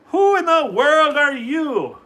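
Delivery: slow, high, loud duck squawk; Donald Duck voice. A narrator's reading. Donald Duck demands who the little man is, slow high squawk. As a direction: demand it like an outraged cartoon duck. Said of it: "he cried".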